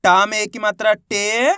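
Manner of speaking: drawn-out syllable by syllable reading; teacher spells out the first letter slowly; slow sounding out. Shown as a demonstration. Teacher shows how to read a word, slowly. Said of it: "अब चलिए आगे देखिए".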